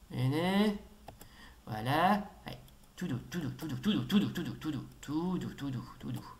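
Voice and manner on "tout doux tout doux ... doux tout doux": soft repeated coaxing, dying away; soothing. Real, not acted. Player coaxes through a tricky bit, soothing. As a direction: coax gently, sinking lower and softer at the end. Soothing during careful play.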